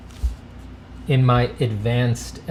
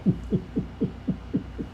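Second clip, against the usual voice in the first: breathy mumbled snicker; 9 semitones higher, 9 dB quieter than usual. Pretend.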